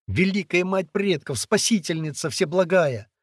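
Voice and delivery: high, loud plea, not whispered; urgent prayer. A narrator's reading. Boy calling on the ancestral mother, pleading prayer. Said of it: "Ули зашептал привычную молитву".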